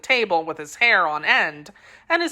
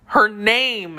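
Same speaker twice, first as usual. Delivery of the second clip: exclaiming; 3 semitones higher than usual. Acted. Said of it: "exclaimed D'Artagnan".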